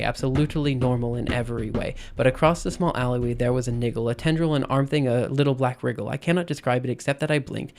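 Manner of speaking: soft, rhythmic reading of a rhyming poem. Acted. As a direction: let the dactyls roll, quiet and steady. Reads her own poem aloud.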